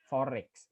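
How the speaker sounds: "forex" joined smoothly by an R; linking R. Shown as a demonstration. Lecturer repeating the linked example, "forex" said as one joined word. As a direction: run "forex" together, R leading into "ex". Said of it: "linking R".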